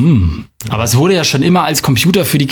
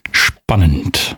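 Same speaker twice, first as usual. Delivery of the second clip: golf commentator; 7 semitones lower than usual. Acted. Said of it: "wie so ein Golfkommentator".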